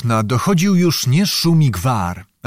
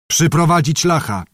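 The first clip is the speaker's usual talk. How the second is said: a higher called-out order; calling out; 4 semitones higher than usual. Acted. Elder officer ordering the prisoner brought, higher call. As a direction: call the command across the room. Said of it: "zawołał starszy kantarzej".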